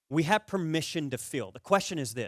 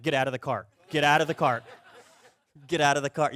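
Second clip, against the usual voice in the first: mock-angry command, getting louder; retold annoyed order; 5 dB louder than usual. Golfer ordering his needling buddy out, mock-angry. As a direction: repeat it more forcefully, in comic exasperation.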